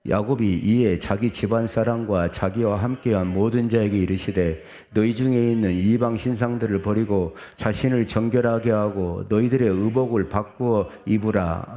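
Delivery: steady, projected reading aloud; scripture reading. Acted. Preacher leads congregation through the verse, reading aloud. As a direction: read the verse out evenly to the congregation.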